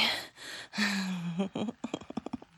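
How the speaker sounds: breathy rising giggle; real short fit of laughter; squirmy giggle. Real, not acted. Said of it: "very squirmy".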